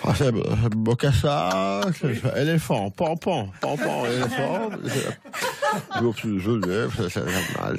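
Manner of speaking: put-on old president's formal cadence; Giscard impression. Impressionist plays Giscard d'Estaing throughout.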